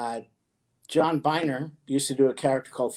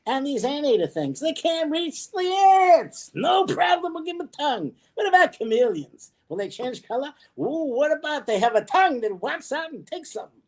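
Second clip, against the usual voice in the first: much higher, playful creator voice; a chatty deity tinkering with animals; God character voice; 9 semitones higher than usual. Pretend. Plays God designing the animals.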